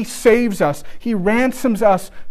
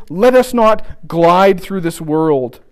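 slow quotation; slower than usual. Shown as a demonstration. Preacher quotes C T Studd.

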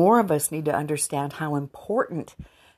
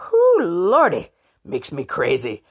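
swooning; 3 semitones higher, 6 dB louder than usual. Real, not acted. Gushing to viewers about his accent, swooning. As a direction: let the thrill carry you away.

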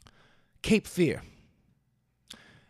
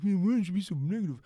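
other voice; 3 semitones higher, faster than usual. Acted. Answers himself in another voice.

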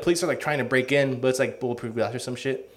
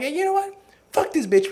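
mock fed-up guy. Guys turning on girlfriend in story.

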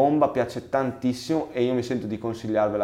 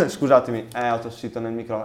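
choking on a drink. Real, not acted. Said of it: "mi è andata di traverso".

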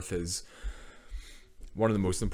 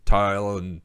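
Northern Irish vowels; 5 dB louder, slower than usual. Shown as a demonstration. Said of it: "you still say it the wrong way".

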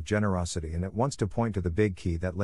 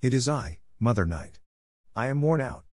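plaintive mew; 3 semitones higher than usual. Acted. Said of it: "mewed, plaintively".

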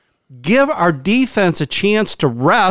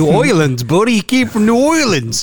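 high, goofy cartoon voice; cartoon character voice; 4 semitones higher than usual. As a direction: mimic an old cartoon character. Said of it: "he sounded like a cartoon character".

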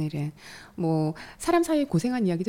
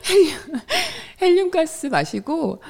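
louder, higher, giggly joke; laughing excitement; 11 semitones higher, 5 dB louder than usual. Real, not acted. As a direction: burst out with a playful giggle. Joking about helium voice.

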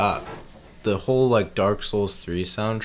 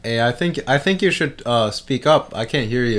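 much louder, higher mock hard-of-hearing call; too loud; 5 semitones higher, 6 dB louder than usual. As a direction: call out as if you can't hear. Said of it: "That's too loud".

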